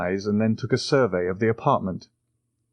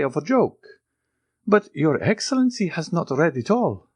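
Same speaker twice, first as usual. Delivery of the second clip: put-on anxious old Italian major; 10 semitones higher than usual. The major protests his trust to the count, high and fawning. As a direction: flatter the count nervously.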